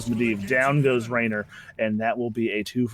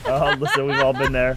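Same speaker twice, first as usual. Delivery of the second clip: laughing; 3 semitones higher, 6 dB louder than usual. Real, not acted. Cohost laughs along.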